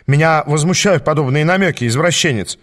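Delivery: ordinary delivery, nothing marked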